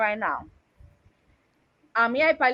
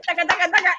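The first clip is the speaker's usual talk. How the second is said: higher-pitched rhythmic sound effect; imitated hammering rhythm; 6 semitones higher, faster than usual. Woman ranting about one-minute lovers, imitated pounding. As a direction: rattle off a mock pounding noise. Imitating hurried action in rant.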